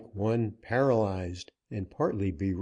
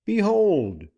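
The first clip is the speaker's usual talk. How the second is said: high, loud proclamation; dramatic reveal; 10 semitones higher, 6 dB louder than usual. A narrator's reading. Dick baring his brand to the banker, loud. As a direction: hurl the word out as a reveal.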